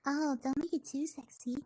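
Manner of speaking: playful high-pitched accent. Shown as a demonstration. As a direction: lift the voice high and keep it light. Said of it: "I really do actually enjoy this high accent".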